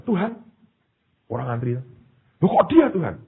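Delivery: dismayed protest. Acted. Man questions God over who was chosen, dismayed protest. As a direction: act out a baffled objection to God.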